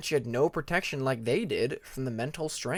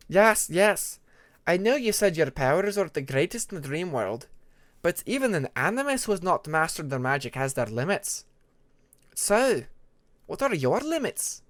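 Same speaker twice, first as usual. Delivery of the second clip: a touch louder and higher, probing; Ermine, pointed icewing; 4 semitones higher, 3 dB louder than usual. Acted. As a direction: push her to admit her limits. Ermine presses Tempest.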